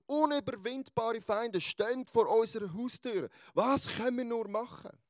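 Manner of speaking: a mild, retold panic of a trapped servant; panicked servant. Servant begging Elisa for help, in mild retold panic. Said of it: "voll im Panikmodus".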